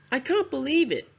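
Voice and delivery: CAN'T, BELIEVE and IT each stressed, starting high and strong; three stressed words. Shown as a demonstration. Teacher models an example phrase for students, three stressed words. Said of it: "has three stressed words".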